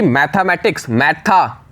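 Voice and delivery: मैथमेटिक्स said so the hidden e sounds, मैथा; spelling pronunciation. Shown as a demonstration. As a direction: stress the e in मैथमेटिक्स as मैथा-मेटिक्स. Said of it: "इस तरीके से pronunciation करो".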